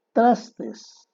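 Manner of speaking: mock the wrong form Trastes; forma incorrecta. Shown as a demonstration. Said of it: "lo correcto es trastos". (Trastes, más alto, como forma incorrecta)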